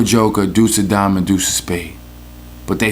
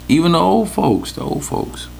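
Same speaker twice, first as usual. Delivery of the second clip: silly voice; 8 semitones higher than usual. Acted. Echoing old folks playfully.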